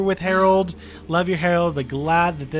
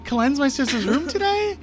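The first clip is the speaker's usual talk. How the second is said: mock flustered; 9 semitones higher than usual. Own scared reply retold.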